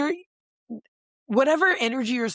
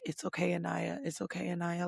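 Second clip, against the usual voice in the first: soft, hushed comforting murmur; gently calm her down, much softer; soothing reassurance; 9 dB quieter than usual. Retold or imitated. Carl comforting crying Anaya, soft hushed reassurance. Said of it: "he was just sitting there like".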